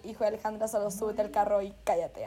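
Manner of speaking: low, soft, stern father's mutter; annoyed father hushing his drunk daughter in the car; stern dad. Retold or imitated.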